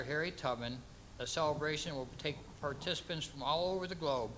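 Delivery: measured ceremonial reading with pauses between clauses; formal proclamation. Acted. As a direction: read out an official proclamation, phrase by phrase.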